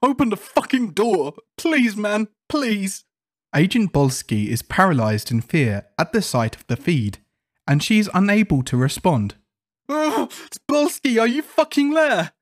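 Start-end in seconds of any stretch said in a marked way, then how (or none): 0.0-3.0 high-pitched desperate pleading; terrified, crying out for rescue; hyperventilating panic. Acted. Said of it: "He then hyperventilates to a large degree". 9.9-12.3 very high, screechy terror; frantic cry for help, pitch through the roof; desperate panicked call. Acted. Swarmed man calls to unresponsive agent.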